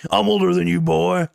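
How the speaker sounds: loud hammed-up mentor scolding a boy; Dave Ramsey impression. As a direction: bark it out like a folksy elder lecturing a kid. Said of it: "become my spirit animal, Dave Ramsey".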